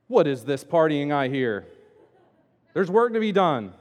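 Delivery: loud, indignant older brother, lightly acted; mock angry. Older brother hearing the party from the field, mock angry. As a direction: grumble it with mock stern disapproval. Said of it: "It says he's angry".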